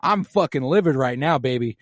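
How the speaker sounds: queen stomping around the castle, hammed up; worked-up mock rant. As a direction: vent like you're buzzing with rage.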